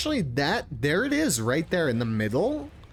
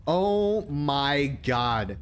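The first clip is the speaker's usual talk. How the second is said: awed gasp; much slower than usual. Real, not acted. Reacting to the creature carving.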